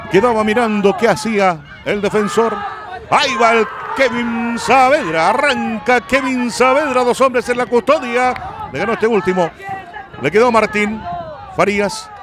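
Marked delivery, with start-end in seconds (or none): 3.1-12.1 rising frenzy into the goal; breakneck goal commentary. Real, not acted. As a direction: pitch climbing, racing to the shot. Goal build-up. (narración de gol frenética)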